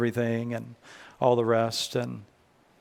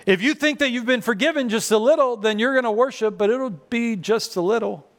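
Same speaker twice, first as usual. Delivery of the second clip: raised pitch for "just a little"; light, high-pitched delivery; high, small voice; 7 semitones higher than usual. Shown as a demonstration. Contrasts forgiven little with forgiven much.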